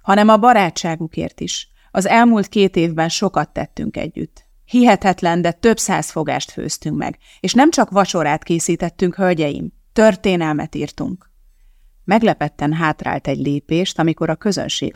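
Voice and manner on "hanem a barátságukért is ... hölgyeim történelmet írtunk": raised voice. Acted. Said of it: "mondta kicsit emeltebb hangon".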